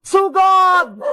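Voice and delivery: drawn-out charging shout; rally your friend to attack; battle cry. Acted. Children charging the villain, battle cry.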